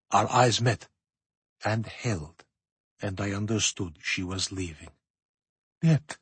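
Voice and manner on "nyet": a short cry, pitched up; understated cry of protest in narration. A narrator's reading. Narrator voicing himself at the Grand Duchess's death, mild cry. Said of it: "I cried".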